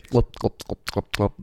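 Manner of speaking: imitated gulping glops; glugging noise. Cat owner imitating cat drinking from toilet, glugging. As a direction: make short, even gulping sounds.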